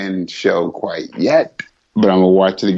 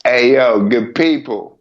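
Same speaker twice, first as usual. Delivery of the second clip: ordinary delivery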